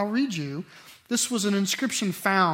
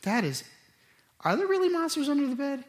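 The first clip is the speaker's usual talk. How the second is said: put-on scared kid; 9 semitones higher, faster than usual. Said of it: "you know".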